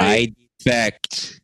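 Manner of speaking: high, slow grand announcement; dramatic declaration. Pretend. Declaring defection to Scotland. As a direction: proclaim it solemnly.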